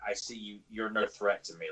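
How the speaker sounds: soft, dismissive quoted scoff. Retold or imitated. Snake King to He-Man, unimpressed by him, quietly scoffing. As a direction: brush off a rival under your breath. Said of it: "like, scoffing at He-Man".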